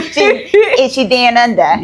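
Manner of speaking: slow, laughing imitation of an Aussie accent; mock Australian accent. Co-host echoing her joke, laughing mock Australian accent. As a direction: playfully echo it in a put-on Australian accent.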